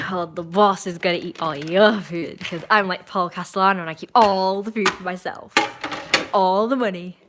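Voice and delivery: lightly hammed-up greedy mob boss; greedy mafia boss. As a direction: play at a gloating boss, drawing out words.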